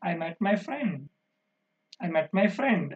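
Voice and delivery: "friend" dropping to close the sentence; falling tone. Shown as a demonstration. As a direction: let "friend" fall at the end. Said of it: "That is a falling tone".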